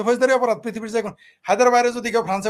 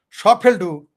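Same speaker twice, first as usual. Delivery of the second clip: louder repeat with সব hit hard; 7 dB louder, much slower than usual. Shown as a demonstration. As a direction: slam the repeat সব ফেলটু. (জোরে, সব শব্দে জোর দিয়ে)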